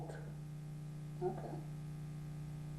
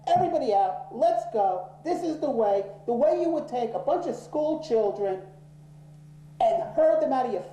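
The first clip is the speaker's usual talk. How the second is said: raised, pushy voice herding people out; herding them out; 4 semitones higher than usual. Retold or imitated. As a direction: drive them down the hall like a crowd. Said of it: "and I said".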